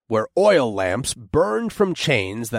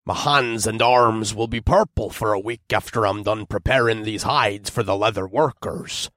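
grumbling. Acted. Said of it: "the dwarf grumbled".

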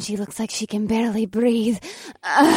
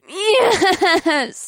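scream; 8 semitones higher than usual. Acted. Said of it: "She screamed".

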